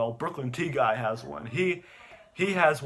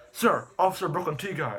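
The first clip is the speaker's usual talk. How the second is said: urgent caller; 4 semitones higher than usual. Retold or imitated. Acts caller alerting officer.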